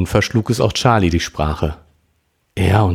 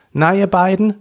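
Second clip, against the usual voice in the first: zurufend; 12 semitones higher than usual. Acted. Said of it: "rief sie ihnen zu".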